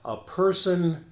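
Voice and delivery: slow, drawn-out anchor teaser; newscast tease. Shown as a demonstration. Anchor improvising a tease going into a break, slow newscast style. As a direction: tease it before the break, leaving gaps. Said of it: "I'll do a little tease".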